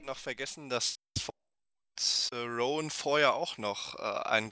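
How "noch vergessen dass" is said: choppy breaking-up call audio; glitchy lagging audio. Real, not acted. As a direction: voice stuttering through a bad connection. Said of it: "Warte mal ganz kurz, Olli".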